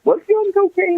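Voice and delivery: high, mocking "was he on cocaine" voice; incredulous asker. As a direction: imitate someone gawking at the question. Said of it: "they're like".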